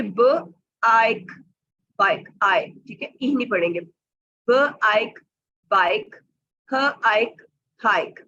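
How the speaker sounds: ब आइक बाइक, split then joined; slow blending. Shown as a demonstration. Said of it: "कैसे पढ़ेंगे". (धीरे से मिलाकर पढ़ना)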